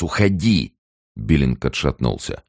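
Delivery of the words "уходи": "Уходи!" cried high, a mild tearful outburst; Уходи flung out, raised, with a hint of tears; tearful cry. Ruth cries at Billing after the slap, mildly tearful shout. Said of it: "закричала она, задыхаясь от хлынувших слёз".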